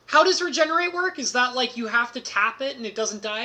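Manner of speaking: high, puzzled question, pitched well up; confused friend. Retold or imitated. Friend asking how regenerate works, high and baffled. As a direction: play the baffled friend squinting at the card.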